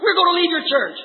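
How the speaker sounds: high-pitched imitated reproach; mock scolding. What Martha could have said to Jesus, mock scolding. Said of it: "instead of scolding, said".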